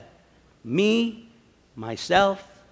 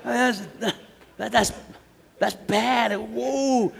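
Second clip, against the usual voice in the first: chuckling through the words, higher; laughing; 5 semitones higher, slower than usual. Real, not acted. Preacher amused by the insult, laughing through it. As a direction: laugh while telling it.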